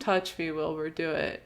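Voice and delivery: mock dare, pushing him to do it; daring. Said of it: "daring him".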